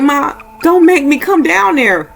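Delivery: high, drawn-out acted plea; slow, high mock whine of dread; reluctant pleading. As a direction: imitate a daughter begging not to go. Scared daughter pleading with mother.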